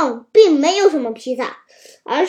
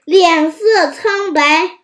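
ordinary delivery, nothing marked

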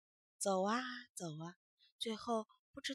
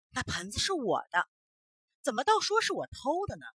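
indignant protest; 4 semitones higher, 6 dB louder than usual. Acted. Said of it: "气坏了".

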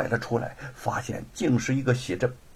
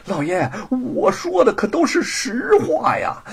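high, loud, frantic pleading; loud clamoring; 9 semitones higher, 6 dB louder than usual. Acted. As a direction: cry out and swear it to the master. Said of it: "大呼小叫地说". (大呼小叫地喊冤)

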